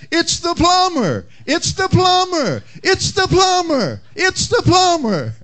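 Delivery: very high squawking parrot repeat; parrot mimicking. Parrot repeating the plumber's words, very high squawk. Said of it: "Then the parrot replied".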